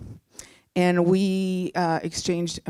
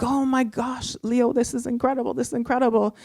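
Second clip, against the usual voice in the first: higher, quick congratulations; retold excitement; 5 semitones higher than usual. Girlfriend congratulating her boyfriend on his new job, retold excitement. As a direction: gush lightly, pitched up.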